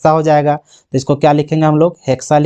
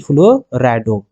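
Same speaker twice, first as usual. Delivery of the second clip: slow dictation; 4 semitones lower, much slower than usual. Shown as a demonstration. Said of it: "तो यहाँ पे लिखेंगे क्या चीज".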